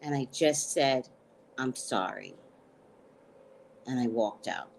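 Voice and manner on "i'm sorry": sheepish apology. Retold or imitated.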